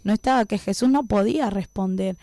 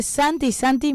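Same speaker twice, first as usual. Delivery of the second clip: mild mock yell, raised pitch only; retold calling, half-voiced; imitated last call; 5 semitones higher than usual. Sister's last call to brother behind her, mild imitated shout. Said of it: "la última vez yo grité".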